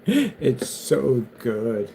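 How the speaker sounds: mock crying. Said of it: "he starts crying".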